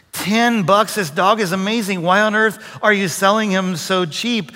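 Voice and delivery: can't believe the price; disbelief. Retold or imitated.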